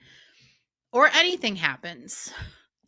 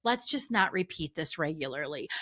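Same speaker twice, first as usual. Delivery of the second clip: softer, gentle reassurance to herself; kind self-talk; 4 dB quieter than usual. Retold or imitated. Coach retelling how she gently forgave herself for the mistake, in soft reassurance. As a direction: let yourself off the hook kindly. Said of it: "I changed my tone with myself".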